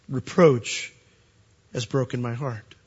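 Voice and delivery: heartbroken. Acted. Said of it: "the Lord's thoughts himself".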